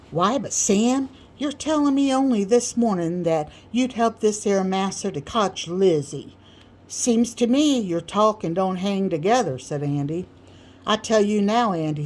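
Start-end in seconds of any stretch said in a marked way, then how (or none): 0.1-9.6 put-on a touch higher, questioning young voice; doubting Andy. Andy objects to Sam. 10.8-12.0 louder, firm put-down; Sam lecturing. Acted. Sam scolds Andy.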